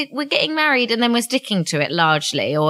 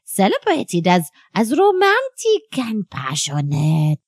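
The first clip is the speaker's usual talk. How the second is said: higher, breezy French wife voice; French accent; 7 semitones higher than usual. Acted. Wife excusing the affair to her husband, French accent.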